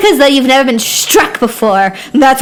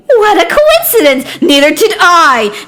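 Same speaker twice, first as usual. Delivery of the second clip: sarcastic retort; 5 semitones higher than usual. Acted.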